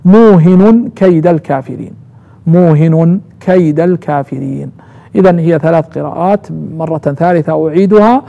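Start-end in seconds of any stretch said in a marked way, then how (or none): 0.0-4.7 موهن as muuhinun; nunation with damma. Shown as a demonstration. Teacher fixing the second reading, nunated موهن. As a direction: end موهن on -un, single h, then kayda. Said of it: "يعني التنوين المضموم".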